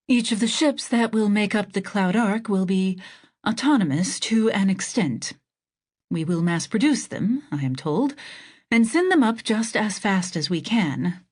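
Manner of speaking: president voice. Acted. President voiced higher, louder.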